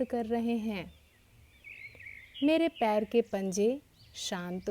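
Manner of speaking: unhurried yoga nidra guidance with long pauses; guided meditation. Real, not acted. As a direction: guide them into relaxation phrase by phrase, leaving space between.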